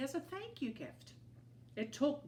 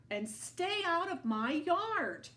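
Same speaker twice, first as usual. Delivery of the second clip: slow, louder grumpy retort; yelled back; 9 semitones higher, 5 dB louder than usual. A narrator's reading. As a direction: yell it back, offended. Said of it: "Hank yelled back".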